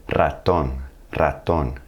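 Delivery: "Ratón" with a rolled opening R; trilled initial R. Shown as a demonstration. Teacher models word-initial R in Ratón, trilled. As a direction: roll the R starting "Ratón". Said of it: "you're gonna have to hit that trill".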